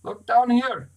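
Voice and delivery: a loud high call to the sky; shout. A narrator's reading. Sailor signals the passing aircraft, loud high shout. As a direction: yell it up at the plane. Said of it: "He shouted".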